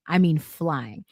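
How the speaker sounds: ordinary talk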